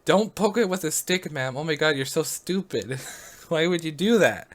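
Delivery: exasperated scolding, imitated without real shouting; mock yelling. Operator scolding caller for poking alligator, mock exasperated yell. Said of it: "yelling at her".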